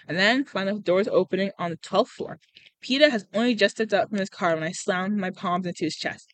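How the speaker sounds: steady storytelling with lightly voiced dialogue; story narration. A narrator's reading. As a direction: read it like an audiobook, lightly acted. Reads a novel aloud.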